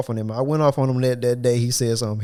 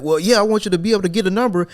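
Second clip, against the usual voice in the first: mock boss; 7 semitones higher, 4 dB louder than usual. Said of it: "He, he like".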